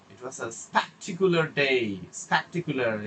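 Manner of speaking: slow, with "spectacular" stretched out and stressed. Shown as a demonstration. Teacher showing which word to focus on, stressed "spectacular". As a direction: put the focus on "spectacular", slowly. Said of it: "ওটাকে focus করছেন এবং stress দিচ্ছেন".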